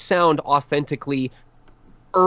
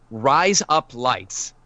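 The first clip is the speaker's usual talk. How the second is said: "Rise up lights" said slowly like "razor blades" in Australian; slow, drawn-out "Rise up lights" sounding like Aussie "razor blades"; Australian demo; much slower than usual. Shown as a demonstration. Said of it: "you're already saying razor blades in Australian".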